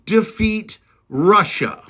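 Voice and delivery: slow, each word separate. Shown as a demonstration. Repeating it for the doubters, slow and deliberate. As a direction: drive it home slowly. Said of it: "I'm gonna say it real fucking slow".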